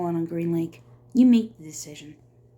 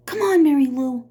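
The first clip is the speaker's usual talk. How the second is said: calling out; 7 semitones higher, 7 dB louder than usual. Acted. Calling to his mule.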